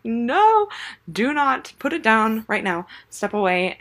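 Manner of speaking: high-pitched, urgent "no" easing down; acting out an alarmed order to stop; alarmed parent command. Mom stopping her toddler about to spray the baby, alarmed command.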